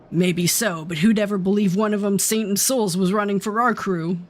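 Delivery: lightly voiced Southern bandit gossip; put-on Southern outlaw talk; Southern accent. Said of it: "doing the Southern accent".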